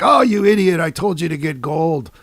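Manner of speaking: loud start, exasperated mock rebuke; annoyed scolding. The singer scolding his roadie over the glitter, exasperated. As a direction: chew out the roadie, falling away.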